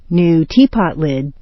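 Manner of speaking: "tea" peaks, "pot lid" trails down; compound intonation. Shown as a demonstration. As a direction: stress "tea" in "New teapot lid". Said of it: "The main intonation patterns".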